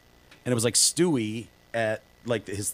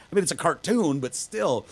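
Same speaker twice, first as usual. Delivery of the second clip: ordinary talk, nothing marked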